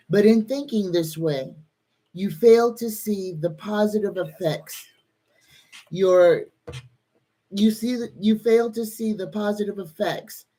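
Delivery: real tearful reading, voice lifting early then settling; choked up. Real, not acted. Reader moved by the collective's blessing, choked up. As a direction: read it aloud while fighting back tears. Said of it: "That one made me cry".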